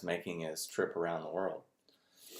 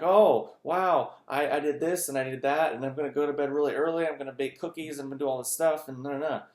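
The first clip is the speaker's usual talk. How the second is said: put-on high, loud, gushing child voice; excited kid; 7 semitones higher, 4 dB louder than usual. Child telling reporter about Santa, high excited gush. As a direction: gush like a thrilled six-year-old. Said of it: "The kid gets all excited".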